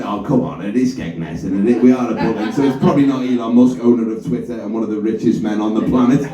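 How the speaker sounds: diplomatic put-down. Retold or imitated. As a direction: gently talk them out of a silly guess. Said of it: "without obviously saying".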